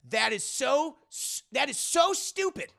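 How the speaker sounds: hushed judge mutters it under breath; whispered aside. Retold or imitated. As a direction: drop to a whisper for the insult.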